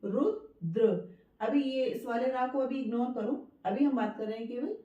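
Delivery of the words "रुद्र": रुद्र slowly as रु-द्र, short उ; broken into syllables. Shown as a demonstration. Teacher checking the vowel with pupils, रुद्र in two parts. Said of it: "रुद्र बोला ना".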